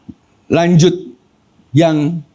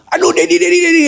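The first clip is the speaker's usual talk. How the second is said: much higher, wailing cry of a name; child's louder scream; 14 semitones higher than usual. Retold or imitated. Father retelling his son calling him in pain, much higher wail. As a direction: cry out the name again and again, pained. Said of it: "teriak dengan lebih kencang dari sebelumnya".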